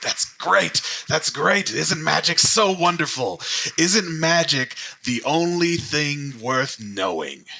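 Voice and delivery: high, loud, effusive praise; gushing grandfather. Acted. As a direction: gush with pointed enthusiasm, slowing at the end. Grandfather gushes, pointedly at the other.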